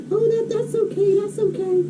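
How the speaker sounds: high, soft consoling lady voice; soothing lady. Retold or imitated. Lady comforting the sobbing boy, soothing. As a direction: imitate a lady hushing a crying boy. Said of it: "She's like".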